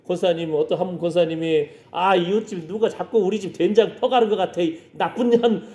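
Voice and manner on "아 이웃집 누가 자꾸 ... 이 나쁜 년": acted-out huffy complaint, pitch climbing; mock indignant grumbling. Church lady suspecting her neighbour of stealing soybean paste, mock indignant. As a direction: grumble with pretend outrage.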